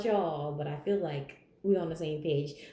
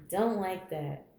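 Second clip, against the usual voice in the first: ordinary talk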